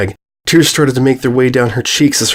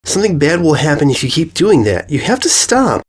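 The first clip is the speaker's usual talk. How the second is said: put-on high earnest girl voice; pleading filly; 5 semitones higher than usual. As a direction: beg her to stop. Filly begs her friend.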